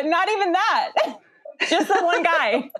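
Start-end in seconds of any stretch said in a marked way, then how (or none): 1.3-2.7 giggling through the words; laughing. Real, not acted. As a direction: laugh it out, amused. Laughing while answering.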